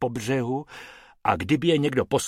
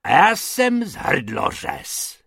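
louder threatening roar; 6 semitones higher, 6 dB louder than usual. Acted. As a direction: roar like a cutthroat. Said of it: "zařval pan Hrubec".

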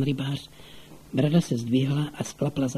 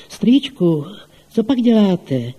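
raised, higher calling voice; calling from outside; 6 semitones higher, 6 dB louder, slower than usual. A narrator's reading. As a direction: call up to uncle through the window, loud and high. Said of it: "ozval se příjemný mužský hlas venku".

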